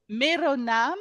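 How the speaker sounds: Mero with a rolled r, teacher model. Shown as a demonstration. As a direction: roll the r in Mero. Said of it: "tu peux redire juste".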